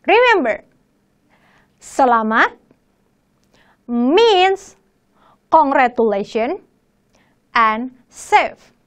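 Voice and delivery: whispered reminder. Shown as a demonstration. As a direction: lean in and whisper it.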